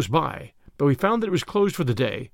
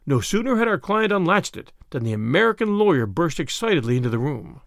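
ordinary delivery

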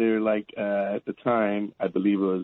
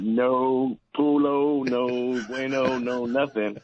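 mock stern tone; much slower than usual. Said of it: "That tone right there".

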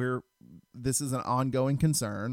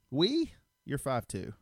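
incredulous mock reply; 2 semitones higher, slower than usual. Husband teasing his short wife's "we", mock incredulous. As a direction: scoff at the idea she'd help.

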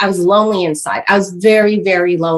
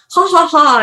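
mock office small-talk laugh; put-on chummy laughter; imitated social laugh; 6 semitones higher than usual. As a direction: fake a polite "ha, ha, ha". Imitating herself fitting in at work.

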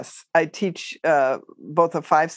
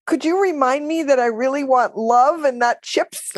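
blurted; 8 semitones higher than usual. Retold or imitated. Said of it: "And I just blurted out".

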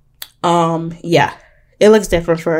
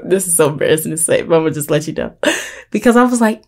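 ordinary talk, nothing marked

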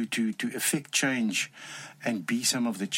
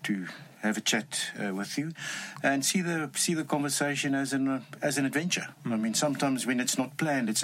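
Afrikaans accent. Real, not acted. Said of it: "You have a strong Afrikaans accent".

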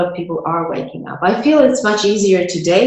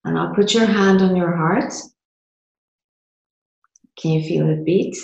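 measured lines with long pauses, left open for repeating; guided meditation. Real, not acted. Host guided through a micro meditation to feel it, guided meditation. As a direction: lead them through it step by step. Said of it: "to do a micro meditation".

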